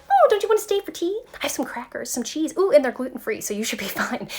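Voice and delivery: pleading, fluttery hostess voice, high and quick; high, fast clingy hostess. Pretend. Clinging to the old self who wants to leave, in a high, fast pleading hostess voice. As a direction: coax the guest to stay, laughing it off.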